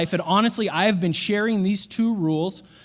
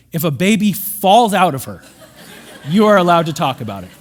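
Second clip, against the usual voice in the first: laughing; 2 semitones lower, 7 dB louder than usual. Real, not acted. Comic exception, laughs.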